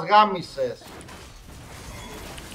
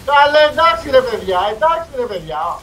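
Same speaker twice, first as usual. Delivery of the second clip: whiny protest; 6 semitones higher, 6 dB louder than usual. Real, not acted. Whining at teammates.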